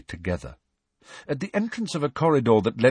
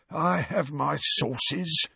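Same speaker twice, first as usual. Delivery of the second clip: high, slow, smug hiss; self-satisfied hiss; 7 semitones higher, much slower than usual. Acted. Filch gloating at Harry, slow smug hiss. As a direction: savour every word smugly. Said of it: "in a self-satisfied hiss".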